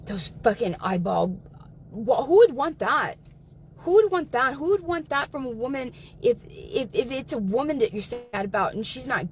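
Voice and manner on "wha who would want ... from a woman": loud, disgusted rant; outraged. Real, not acted. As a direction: raise your voice in disgust. Ranting in disgust.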